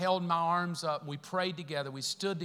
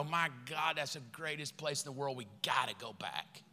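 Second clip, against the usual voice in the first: much softer, lower, breathless awe; awed churchgoer; 6 semitones lower, 8 dB quieter than usual. Retold or imitated. Churchgoer leaving service, soft awed whisper-like. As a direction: hush it like someone in awe. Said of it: "walk out the door and go".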